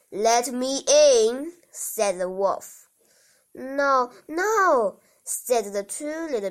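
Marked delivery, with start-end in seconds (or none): 0.1-1.5 big bad wolf. Wolf demands entry again. 3.5-5.0 squeaky little pigs. Acted. Two pigs refuse wolf.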